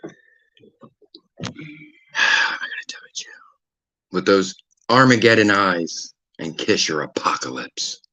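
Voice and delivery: low, quiet, slow dramatic delivery; hushed and deliberate; low, grave recitation. Acted. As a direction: recite it slowly and ominously, with long pauses. Reciting lines with dramatic gravity.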